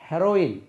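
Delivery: ஹெரோயின் opening on short "e", not "hee"; correct heroine pronunciation. Shown as a demonstration. Teacher revealing a commonly mispronounced word to pupils, correctly said he-ro-in. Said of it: "உச்சரிப்பு எப்படி?".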